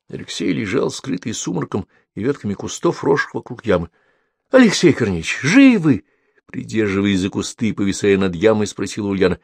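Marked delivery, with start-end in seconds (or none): 4.5-6.0 anxious call. A narrator's reading. Calls down into pit.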